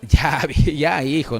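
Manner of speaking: soothing father. Retold or imitated. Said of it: "Lo ve como a su hijito que patalea".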